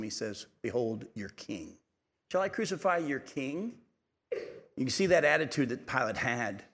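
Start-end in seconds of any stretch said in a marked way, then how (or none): 0.6-1.8 slow, drawn-out mock "Behold your king". Pilate taunting the Jews, mild mocking drawl. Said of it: "and he mocks them". 2.3-3.8 "crucify" lifted in a taunting rise; a sarcastic question; mocking. Pilate mocking the priests, light sarcasm. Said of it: "and he mocks them".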